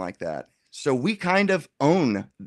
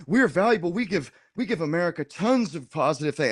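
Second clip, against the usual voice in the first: mock indignant; 4 semitones higher than usual. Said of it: "they get all indignant".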